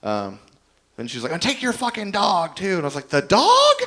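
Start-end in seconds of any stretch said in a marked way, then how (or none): 1.3-2.8 higher-pitched, drawn-out mock yell; angry retort. Partner throwing him out with his stuff, mock angry. 3.1-3.8 loud, very high disbelieving squawk; incredulous. Retold or imitated. Man being thrown out answers his partner, incredulous. Disbelieving reply in retold quarrel.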